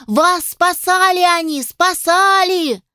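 high, slow squeaky spider voice; squeaky pleading. A narrator's reading. The little spider pleads with its master over the commotion. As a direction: squeal it out, drawn out, desperate to be heard. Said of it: "паучок пытался всех перекричать".

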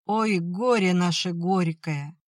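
slow, keening peasant lament; lamenting wail. Acted. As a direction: wail over your misfortune. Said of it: "запричитала мать".

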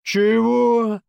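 "Чего" drawn out high and loud; a loud, high, threatening what; menacing "what?". Acted. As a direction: sergeant turning on the cheeky teen, menacing. Sergeant whirls round at teen.

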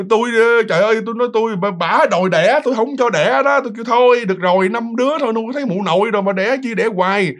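exasperated protest. Acted.

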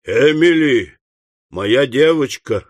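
mildly reproving father; understated, drawn-out reproach; reproachful. Acted. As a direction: call her name firmly, then slow down. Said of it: "укоризненно сказал Уордль".

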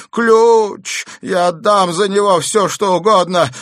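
high, loud frantic bargaining; desperate demand. A narrator's reading. Madman begs desperately for key. (отчаянно и громко упрашивать)

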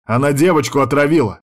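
outraged shout. Acted. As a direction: throw the charge at her. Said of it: "гаркнул Дамиан".

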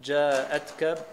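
جاءتك with no long vowel, "ja'atka"; hamza without madd. Shown as a demonstration. Student reading al-Hasan's variant, جاءتك as short "ja'atka". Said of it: "بالهمزة من غير مد".

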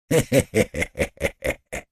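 soft, sly chuckle; a knowing little laugh, almost to himself; quiet sly laugh. Acted. Porfiry chuckles.

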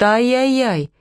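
lightly fretting ай-яй-яй; ай-яй-яй said by a worried owner with a falling tune; worried ay-yay-yay. A narrator's reading. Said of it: "Голос Иры звенел от волнения".

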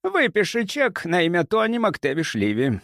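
lightly sugared instruction; sweetly smiling. A narrator's reading. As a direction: ask with a smile in the voice. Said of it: "мило улыбаясь".

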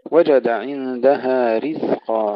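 رزقا with a voiced still زاي, not سين; slow recitation, keep the زاي of رزقا voiced; clear z. Shown as a demonstration. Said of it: "الزاي الساكنة". (الزاي الساكنة في رزقا)

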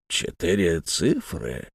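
quiet, slow stunned mutter. A narrator's reading. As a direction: mumble it in disbelief. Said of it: "пробормотал Бен Омар".

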